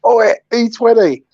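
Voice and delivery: retold shout. Stranger hails him in a pub, retold drawn-out shout. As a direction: imitate someone calling across a pub. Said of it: "someone shouted out".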